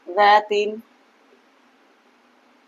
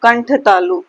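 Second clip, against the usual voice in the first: louder, rule recited with emphasis; emphatic recital; 6 dB louder, slower than usual. Shown as a demonstration. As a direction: call out the rule. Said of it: "क्या है छठा".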